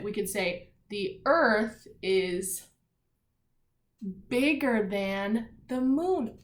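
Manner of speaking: slow, stress on Earth and bigger; opposite comparison. Shown as a demonstration. Teacher showing the opposite comparison, slow and deliberate. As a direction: spell out the reverse comparison. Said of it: "we could say the opposite".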